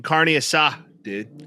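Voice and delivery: put-on laid-back California dude accent; exaggerated California slang voice; super Cali. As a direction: say it like a total Cali bro. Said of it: "like, super Cali with it".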